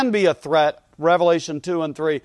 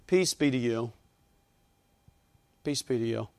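gentle pastoral greeting; 5 semitones lower, 7 dB quieter than usual. Pretend. Pastor blessing the church from the platform, gently. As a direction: pretend pastor, soft and low.

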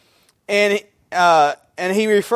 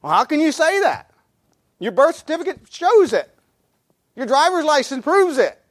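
high-pitched, disbelieving objection; mock disbelief, pitched well up; incredulous protest; 8 semitones higher than usual. Preacher arguing with someone denying Nathan's name, incredulous. Acts out disputing a denied name.

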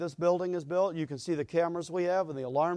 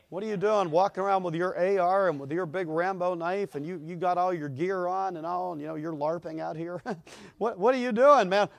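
policeman voice. Retold or imitated. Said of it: "Policeman comes along and says".

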